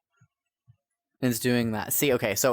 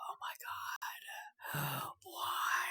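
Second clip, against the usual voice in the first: shocked gasp; 15 dB quieter, slower than usual. Real, not acted. Shocked at the error.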